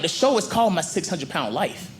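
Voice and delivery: high, indignant scolding yell. Acted. Viewer yelling at a crying patient on TV, indignant shout. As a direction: tell Brenda off, rising to a shout. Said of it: "I start yelling at the T V".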